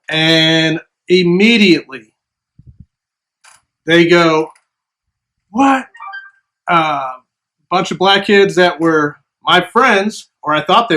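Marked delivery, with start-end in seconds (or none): 5.5-5.9 high-pitched rising "what?"; mock indignant what. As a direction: imitate kids taking offense, pitched up. Classmates confront him after shove.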